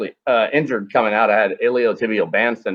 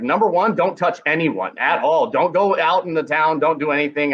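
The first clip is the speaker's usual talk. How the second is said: higher, emphatic warnings; urgent orders; 5 semitones higher than usual. Retold or imitated. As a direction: lay down the rules in alarm.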